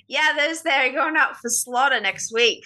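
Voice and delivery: put-on a loose, half-done Australian accent; casual Australian farm wife, mild put-on. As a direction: play the farm woman with a light Aussie lilt. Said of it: "That was more of an Australian accent".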